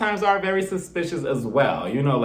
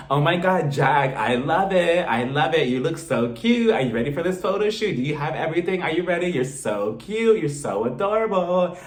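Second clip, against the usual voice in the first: gushing mother. Retold or imitated. Mother admiring her son before prom, mock gushing. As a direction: stretch the praise out, mock doting.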